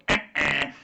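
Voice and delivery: short buzzer-style "eh, eh"; wrong-answer buzzer imitation. Shown as a demonstration. Host shows what he thought losing sounded like, buzzer imitation. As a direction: imitate a quiz show buzzer. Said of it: "the universal sound for losing was".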